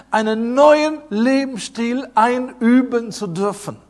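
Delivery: preacher stressing "einüben". Real, not acted. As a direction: lean on the word "einüben". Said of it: "die Betonung ist auf üben".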